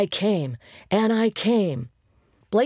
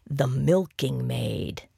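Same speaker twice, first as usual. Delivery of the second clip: with a wink; 2 semitones lower, slower than usual. Acted. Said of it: "he said with a wink".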